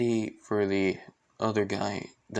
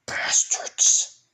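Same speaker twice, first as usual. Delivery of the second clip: slow, drawn-out curse under the breath; whispery slow anger, word by word; seething hero; much slower than usual. Retold or imitated. Asta hearing the villains' reason, seething. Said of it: "he's like".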